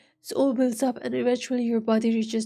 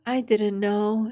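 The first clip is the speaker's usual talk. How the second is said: mocking; slower than usual. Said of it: "he repeats mockingly".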